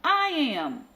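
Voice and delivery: high, squabbling cat voices; each kitten shrilly claims to be prettiest; bickering chorus of tiny cats; quarrelling cats. A narrator's reading. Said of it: "cried the hundreds and thousands".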